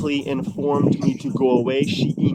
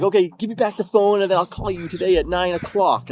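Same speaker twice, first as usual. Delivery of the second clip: higher-pitched bargaining; raised-pitch quote of the ex; imitating ex-girlfriend; 4 semitones higher than usual. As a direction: mimic her placating promise. Voices ex bargaining for phone.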